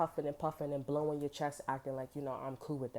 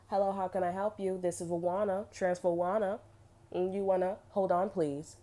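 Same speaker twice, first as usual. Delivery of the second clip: slightly raised switchboard voice; busy receptionist; 4 semitones higher, 4 dB louder than usual. Acted. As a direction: lightly play a receptionist juggling calls. Acts out a receptionist transferring calls.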